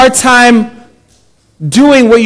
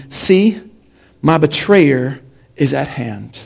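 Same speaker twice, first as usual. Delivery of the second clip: measured public Bible reading with pauses; scripture reading; 3 semitones lower than usual. A narrator's reading. Pastor reading Mark to the congregation, measured scripture reading. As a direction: read it out deliberately, phrase by phrase.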